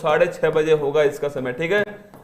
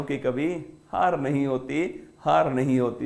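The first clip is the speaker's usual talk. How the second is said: poem recitation. Acted. Teacher recites a poem to urge failing students on, measured and fading.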